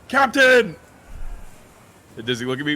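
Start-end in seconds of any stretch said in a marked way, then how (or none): 0.1-0.7 very high-pitched, loud yell. Calling out to the captain on a sinking ship: yelling to the captain. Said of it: "I'm gonna yell at him".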